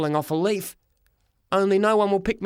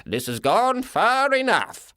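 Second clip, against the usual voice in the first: slow higher voice of authority; firm Fred; 5 semitones higher, slower than usual. A narrator's reading. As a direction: put a stop to it. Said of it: "he said".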